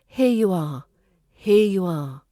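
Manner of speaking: "Here you are" joined as one word, falling at the end; strong linking. Shown as a demonstration. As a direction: run "Here" straight into "you". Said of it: "there's strong linking between the here and the you".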